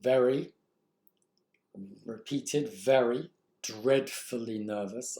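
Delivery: very ... very ... dreadfully nervous, slowly with pauses; deliberate slow read of the dashes; slow, halting reading. Shown as a demonstration. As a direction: lean on each word, dragging it out. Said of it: "Look at these dashes".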